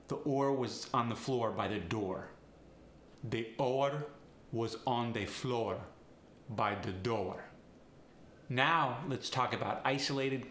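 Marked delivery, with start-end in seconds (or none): 3.2-7.4 extra vowel slipped into oar, said like oh-uh; Farsi accent. Shown as a demonstration. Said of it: "Add an extra vowel".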